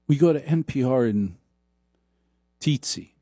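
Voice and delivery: mock public radio news read, hushed and halting; NPR parody. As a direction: drag every phrase like a sleepy radio anchor. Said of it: "talks like this".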